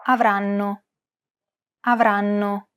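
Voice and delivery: Avranno with even syllables, the double N held; syllable-timed. Shown as a demonstration. Teacher shows Italian syllable timing on Avranno. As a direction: give every syllable of Avranno equal time. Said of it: "each syllable is pronounced for roughly the same amount of time".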